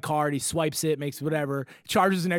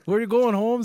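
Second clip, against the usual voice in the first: higher-pitched mock Spanish accent; 6 semitones higher, 4 dB louder than usual. Airport guy asking traveler's destination, imitated Spanish accent. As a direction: put on a light Spanish-accented street greeting. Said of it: "in his very thick, uh, Spanish accent".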